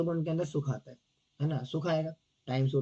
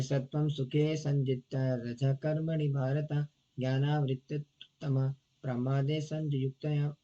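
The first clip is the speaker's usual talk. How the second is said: slow, measured Sanskrit recitation; verse recitation; much slower than usual. Acted. Teacher reciting the Gita verse to the devotees, slow and measured. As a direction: recite each word of the verse deliberately.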